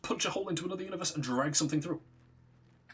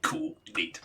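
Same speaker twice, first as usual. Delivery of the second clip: sudden high-pitched chirp; mock delight; 13 semitones higher than usual. God chirping at the summoned warrior before killing him, delighted.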